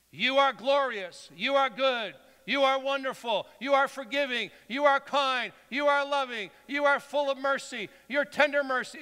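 high, ringing litany of praise; fervent praise. Shown as a demonstration. Preacher shows congregation how to praise God, fervent declaration. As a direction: declare each line with a strong, repeated cadence.

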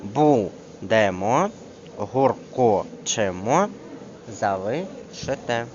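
БУДЕМО on БУ, ГУРКОЧЕМО on КО, ЗАЛИШИТЕ on ЛИ; slowly syllable by syllable, avoiding stress on the ending; exception stress. Shown as a demonstration. Teacher showing exceptions, slow syllabic stress demonstration. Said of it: "є слова винятки тут".

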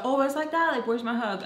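mock indignant. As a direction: imitate a friend acting put out. Retold friend demanding a hug.

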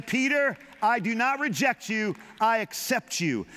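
gentle voice of Jesus to Peter; lightly voiced Jesus, accepting; Jesus speaking. Jesus telling Peter he is accepted, lightly voiced. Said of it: "He was saying".

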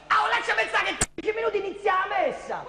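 put-on fast, huffy old woman voice; huffy old lady. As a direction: snap it back like a prim churchgoer. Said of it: "risponde tutta impiperita". (vecchietta stizzita e veloce)

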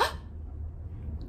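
sharp surprised gasp; startled gasp for the children; demo gasp. Shown as a demonstration. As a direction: show a big gasp. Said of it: "Maybe you got surprised or really excited?".

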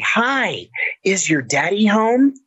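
mock sweet caller at the door; sugary sweet voice. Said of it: "this sugary sweet voice".

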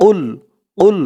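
উল pushed out from the throat; throat sound. Shown as a demonstration. Teacher showing the throat push in the qaf sound. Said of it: "গলার ভিতর থেকে আওয়াজটা একটু ধাক্কা খেয়ে আসবে".

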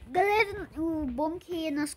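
high, loud excited call. Real, not acted. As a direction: perk up suddenly. Sudden cheerful call to viewers.

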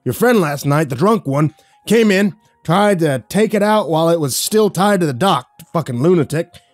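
loud, high furious rant; spitting mad. Acted. Dockmaster ranting about the drunk friend, spitting with rage. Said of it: "He was practically spitting".

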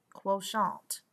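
mock-French accent on the last syllable. Shown as a demonstration. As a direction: say it as if it were French. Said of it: "Sounds French".

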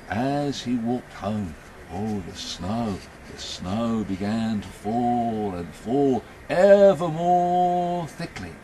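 suspenseful storyteller stretching key words; story narration. A narrator's reading. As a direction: draw the listeners slowly into the mystery. Tells a story to audience.

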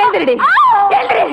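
harsh, rising on the second எழுந்திரு; angry order. Acted. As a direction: force her to her feet. Stepmother orders girl up.

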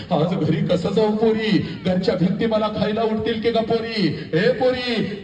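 acted lament with drawn-out calls; mother's wail. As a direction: cry out after a departing daughter. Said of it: "पहिला हंबरडा ... तुझी आई फोडते पोरी".

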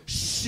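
long, emphatic "shh" back; drawn-out retaliatory shushing noise; defiant shush. Acted. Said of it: "even louder back".

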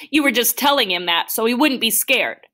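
high-pitched, heated blame; upset accusation. Acted. Boy accuses doctor of lying.

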